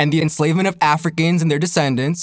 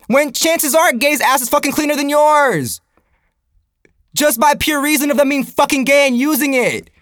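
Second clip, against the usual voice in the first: incredulous outrage; 7 semitones higher than usual. Real, not acted. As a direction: push each accusation up high, stretching the ends. Comic rant reaching its punchline.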